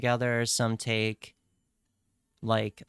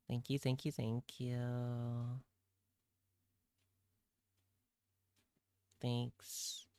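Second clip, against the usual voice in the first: soft thanks; 7 dB quieter, slower than usual. Pretend. Thanking plushie softly.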